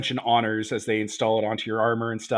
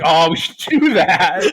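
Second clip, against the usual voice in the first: mock dumb realization; 4 semitones higher, 8 dB louder, slower than usual. Mocking the characters' reply.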